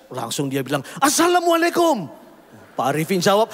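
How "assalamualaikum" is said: bright high greeting. Retold or imitated. Stranger greets, thinking him Muslim.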